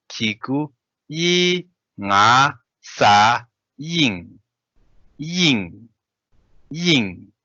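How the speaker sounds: teacher spelling Tibetan syllables clearly; Tibetan syllables read aloud. Shown as a demonstration. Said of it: "And then next we have".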